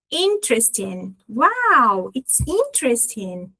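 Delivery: slow "Interesting", stress on IN; strong first syllable. Shown as a demonstration. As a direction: stretch the first syllable of "interesting" for learners to repeat. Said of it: "A gente coloca ela bem forte".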